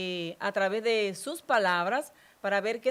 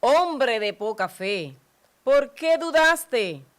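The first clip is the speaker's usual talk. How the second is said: gentle rebuke; 2 semitones higher, 8 dB louder, slower than usual. Acted. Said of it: "lo sostuvo y le dijo".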